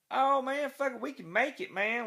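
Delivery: high, loud reckless whoop. Retold or imitated. Driver racing the train, loud high reckless whoop. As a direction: gun it like a daredevil.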